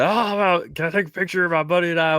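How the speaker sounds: high, quick, sweet voice; mock polite ask. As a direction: ask it all cute.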